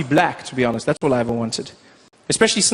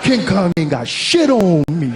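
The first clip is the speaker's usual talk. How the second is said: practicing black American voice; 7 semitones higher, slower than usual. Retold or imitated. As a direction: show off practised American cool. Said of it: "practicing, like".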